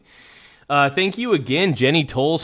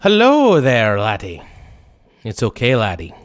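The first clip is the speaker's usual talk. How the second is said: a light mock Irish accent, a bit playful; lightly put-on Irish brogue, reassuring; 3 semitones lower, 3 dB louder than usual. Streamer voices a mock Irish character for viewers. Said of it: "I'm gonna do the Irish accent".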